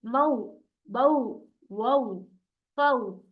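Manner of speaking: मऊ, बऊ, वऊ, पऊ each with a gliding औ; soft waw demo. Shown as a demonstration. Teacher drills the soft waw syllables. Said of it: "इस तरीके से पढ़िए".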